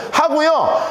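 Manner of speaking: usual speaking voice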